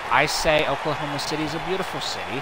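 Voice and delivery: broadcast host welcome. Acted.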